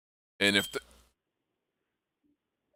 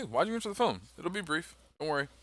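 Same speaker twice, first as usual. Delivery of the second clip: fast, higher, blunt challenge; 6 semitones higher than usual. Shown as a demonstration. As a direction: snap the question out fast and high. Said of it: "be very blunt with these people".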